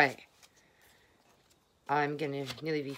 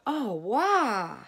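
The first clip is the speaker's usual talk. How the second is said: relieved; 5 semitones higher, 3 dB louder than usual. Retold or imitated. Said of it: "all of a sudden I go".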